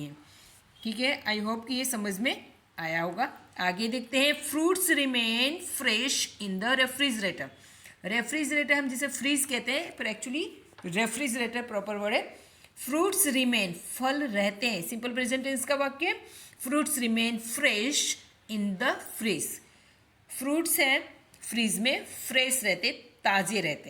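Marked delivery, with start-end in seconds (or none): 4.5-7.5 slow, deliberate teacher dictation; slow example reading. Shown as a demonstration. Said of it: "teacher reads example sentence". 16.6-19.5 slow, deliberate teacher dictation; slow example reading. Shown as a demonstration. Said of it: "teacher reads example sentence".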